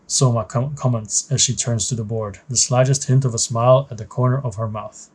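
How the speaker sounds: measured, even story read-aloud; story narration. A narrator's reading. Narrator setting the scene for a new trainee pilot, story narration. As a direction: narrate it like a mission briefing.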